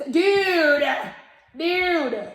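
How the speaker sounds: loud, high "Dude!" shouts; yelling at the dog. Real, not acted. Yelling at her dog to stop chewing, a real loud shout.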